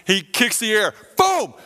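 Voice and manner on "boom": very high, loud shouts of excitement; freaking out. Retold or imitated. Friend celebrating the fake winning ticket, excited shouting. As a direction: whoop it out like a lottery winner. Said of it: "he's all freaking out".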